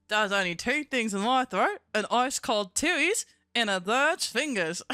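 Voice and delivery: puppet line broken up by giggles; laughing through it. Pretend. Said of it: "The only two things I throw in ice cold tooties".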